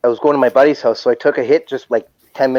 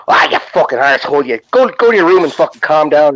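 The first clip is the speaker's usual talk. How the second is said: put-on Irish accent. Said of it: "she had an Irish accent".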